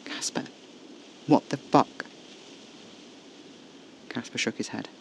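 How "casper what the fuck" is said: cold anger. Acted. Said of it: "hard and cold".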